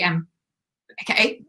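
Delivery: hiccuping mid-word; hiccups. Real, not acted. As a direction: talk through the hiccups. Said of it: "Oh, got the hiccups".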